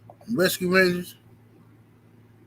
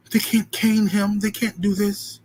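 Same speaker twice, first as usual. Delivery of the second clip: mock outrage; 4 semitones higher, slower than usual. Imitating outraged white Americans.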